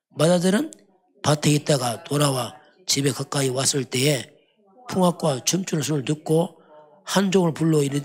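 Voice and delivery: solemn, unhurried Bible reading, slowing at the end; measured pulpit reading; scripture reading. Acted. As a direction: read the father's command from the pulpit. Reads verses 25-27 aloud.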